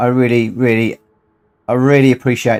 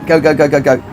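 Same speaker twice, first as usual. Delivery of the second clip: cheering on; 3 semitones higher, faster than usual. Real, not acted. Cheering on a teammate in race.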